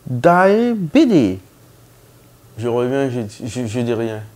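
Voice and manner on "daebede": high, loud call across the waiting room; calling out a name. Retold or imitated. Nurse loudly calling the patient's mangled name.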